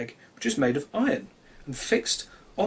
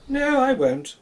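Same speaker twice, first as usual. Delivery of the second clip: much higher, apologetic little voice; sorry rooster; 9 semitones higher, 4 dB louder, slower than usual. Acted. Cocky apologises to the sun, high and sorry. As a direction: plead sorry in a small high voice. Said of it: "said Cocky".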